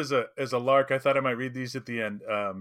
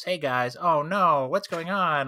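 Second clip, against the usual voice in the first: mock orc voices, lifted and louder; orcs talking casually; 5 semitones higher, 4 dB louder, slower than usual. Orcs discussing captive hobbits, mock everyday chatter. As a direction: play orcs chatting like regular guys. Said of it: "But they talk like this".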